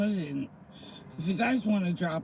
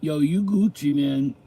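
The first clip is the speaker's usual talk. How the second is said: imitating slang kids; 6 dB louder than usual. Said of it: "I can't imagine talking like this".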